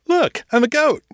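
loud, very high goofy exclamation; goofy showing off. A narrator's reading. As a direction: clown loudly for the crowd. Clowning to distract the crowd.

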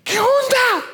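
grito agudo y fuerte de golpe; suéltalo como un capitán alarmado; capitán gritando. Retold or imitated. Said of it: "le dice". (capitán que grita a Jonás)

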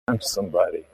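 mock self-important with a high laugh. Preacher mocking a proud churchgoer, laughing.

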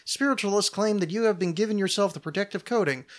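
lilting, slightly lifted southern accent. Real, not acted. Host reading the show intro to listeners, southern accent. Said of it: "I got a weird southern accent".

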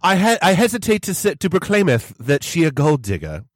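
hammed-up olde English proclamation; mock Shakespearean. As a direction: play a pompous Elizabethan herald. Fake old English speech.

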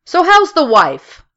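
high, slow, hearty coworker voice; mock chummy boss small talk; cheery office small talk. Coworker chatting in the office, high and hearty. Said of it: "peppered with expressions such as".

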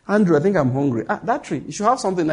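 offhand aside to a companion; casual. Retold or imitated. Hungry man chatting to Andrew on the road, casual. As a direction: toss it off casually, as a passing thought. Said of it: "looked at a tree casually, just said".

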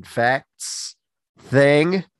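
congested, blocked nose voice; stuffed-up nose. Real, not acted. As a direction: speak through a stuffed nose. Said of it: "I sound very stuffed".

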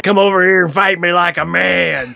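a light drawling cowboy tough guy; mild John Wayne swagger; lightly imitating the Duke; John Wayne impression. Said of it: "In his best John Wayne impression".

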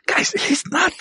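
high, slow, rising to a laughing shout; panicked character voice. Acted. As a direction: plead with the party, building to a cry. Character urging party, rising panic.

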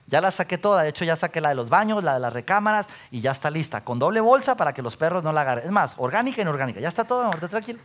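fast, soothing reassurance; calm her down while listing everything done; husband reassuring wife the trash is handled, fast and gentle. Retold or imitated. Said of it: "Y tú dijeras".

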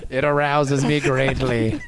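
low, slow, deadpan come-on; mock seductive role. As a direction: intone it with mock gravity. Joking in a put-on character voice.

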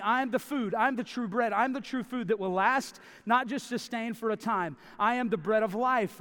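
preacher booming the divine claim; bold, emphatic. Retold or imitated. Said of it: "bold, emphatic".

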